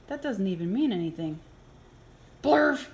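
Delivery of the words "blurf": silly shout. Acted. Silly word the book forces.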